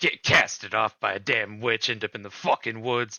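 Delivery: muttering under the breath. A storyteller voices Erich throwing logs on the bodies as the players walk up, muttering. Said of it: "you hear him muttering something".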